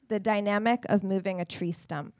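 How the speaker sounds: clear, projected reading to a room; poetry reading. Acted. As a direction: announce the title, then begin the poem. Reads title and opening line.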